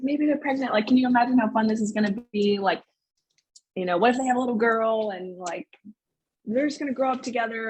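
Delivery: excited guessing. Retold or imitated. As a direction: retell it as eagerly imagining fun ahead. Retelling her innocent excited guess.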